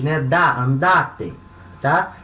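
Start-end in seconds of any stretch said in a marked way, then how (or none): 0.2-1.3 "andate" slowly, stressed on the middle "da"; stress on second-to-last syllable. Shown as a demonstration. Teacher showing students where the tonic syllable falls, stressed "da" in "andate". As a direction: isolate "Da", then say "andate" leaning on that syllable. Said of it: "cuja sílaba tônica é a segunda de trás pra frente".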